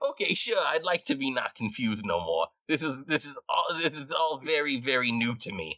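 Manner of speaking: confused rat. Acted. Rat agreeing to music that eases confusion, bewildered.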